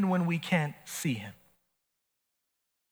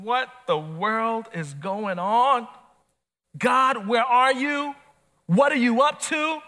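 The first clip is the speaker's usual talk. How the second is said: higher, louder lament to God; pleading cry; 4 semitones higher, 3 dB louder, slower than usual. Pretend. Preacher voicing a believer crying out to God, louder and higher. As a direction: throw the questions up to heaven in distress. Voiced desperate complaint to God.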